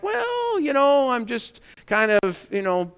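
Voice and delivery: hammed-up evasive waffling; evasive hedging. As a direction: play the squirming evader stalling for time. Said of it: "And they're like".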